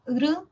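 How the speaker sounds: "gr" shown as an isolated vibrant sound; trilled r sound. Shown as a demonstration. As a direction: demonstrate "gr" with the tongue vibrating on the r. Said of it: "es una vibrante".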